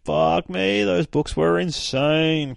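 high-pitched, drawn-out enthusiasm; real fan excitement, stretching the key word; amazed raving. Real, not acted. Raves about favourite comics.

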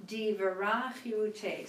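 slow and deliberate, each word shaped; slow model reading. Shown as a demonstration. Teacher models a phrase slowly for the class. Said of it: "word by word".

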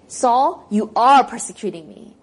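loud, blunt accusation; accusing. Shown as a demonstration. Pastor showing how Jesus did not speak, loud accusation. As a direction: throw the charge at him. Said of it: "He doesn't say".

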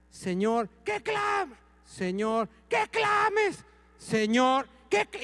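súplica aguda y fuerte, repetida; insistencia a gritos imitada. Retold or imitated. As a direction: clamar a Dios insistiendo a gritos. Imita su insistencia en voz alta. (pastor imita su insistencia, gritando agudo)

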